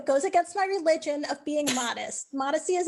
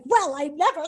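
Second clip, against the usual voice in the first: mock alarmed; 2 semitones higher, 6 dB louder than usual. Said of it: "they were very just kind of, like, alarmed".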